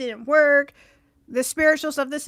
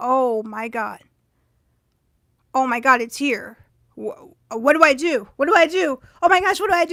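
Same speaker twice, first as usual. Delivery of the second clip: mock flustered freak-out, repetitive, rising and frantic. Speaker retelling a man opening up about himself, retelling own panic. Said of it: "I'm freaking out and I'm panicking".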